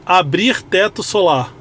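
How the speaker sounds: slow, clear spoken command; talking to voice assistant. Real, not acted. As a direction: give the car a voice command. Voice command to car system.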